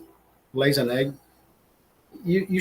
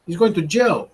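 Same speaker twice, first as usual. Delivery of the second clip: put-on Mexican-style accent; 3 semitones higher than usual. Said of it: "he has a strong accent, Mexican".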